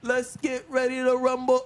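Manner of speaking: lightly voiced ring announcer, slow; drawn-out but restrained announcer imitation; toned-down announcer call. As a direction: hold back the big fight-night holler. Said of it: "I'm not trying to do the whole".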